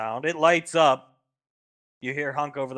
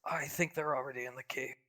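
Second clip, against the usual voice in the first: softer, quietly murmured; under her breath; 9 dB quieter than usual. Acted. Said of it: "She says under her breath".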